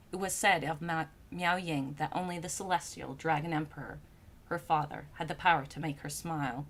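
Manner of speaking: low, soft, measured storyteller; composed literary narration; story narration. A narrator's reading. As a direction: read the tale calmly, settling at phrase ends.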